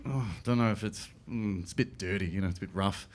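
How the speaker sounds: lightly mocking a posh friend's disdain. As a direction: turn your nose up lightly at it. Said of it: "she's like".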